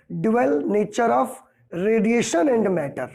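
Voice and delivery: each word spaced out slowly for the class; slow, deliberate. Shown as a demonstration. Teacher spelling out the chapter title slowly for students. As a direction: say the full title slowly, as if dictating.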